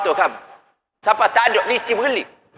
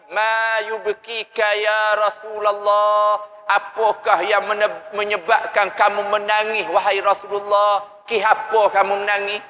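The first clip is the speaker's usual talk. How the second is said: dying Khadijah; slower than usual. Acted. Dying Khadijah asks the weeping Prophet.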